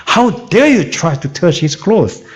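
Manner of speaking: slow, emphatic mock rebuke; browbeating. Bystander scolding the woman for touching Jesus's clothes, mock browbeating. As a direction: hammer it out as an indignant challenge. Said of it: "윽박지르듯이 했을 것 같아요".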